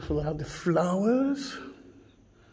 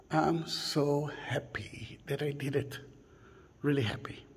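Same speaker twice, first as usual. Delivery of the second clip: whispered joy; 2 semitones lower, 11 dB quieter than usual. Real, not acted. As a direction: confide it in a hushed whisper. Moved after the visit.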